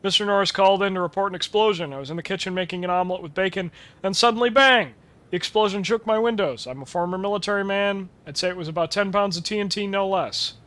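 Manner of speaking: lightly voiced caller. Reads caller report in voice.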